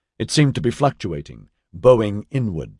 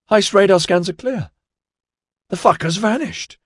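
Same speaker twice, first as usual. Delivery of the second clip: higher and higher in disbelief; building to stunned excitement; astonished; 6 semitones higher, 5 dB louder than usual. Acted. Sensor officer sees barrier vanish.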